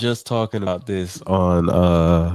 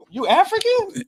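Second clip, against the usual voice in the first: mock surprise; slower than usual. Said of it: "you're like".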